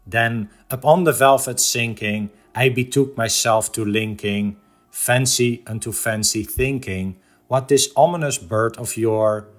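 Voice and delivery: measured, rhythmic verse reading; solemn cadence with a hushed final word; poem recitation. Acted. Recites The Raven stanza by stanza.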